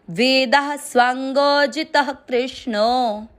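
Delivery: slow chanted recitation of the verse; measured devotional recitation. Acted. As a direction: intone the verse line slowly.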